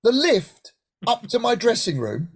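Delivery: rising disbelieving question; echoing the stage doorman in amazement; incredulous question. Retold or imitated. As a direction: ask it as if you misheard. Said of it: "The what?".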